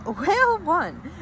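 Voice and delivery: a real laugh breaking into the words; laughing at a slip. Real, not acted. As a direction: chuckle through it after fumbling the line. Laughs after tripping on words.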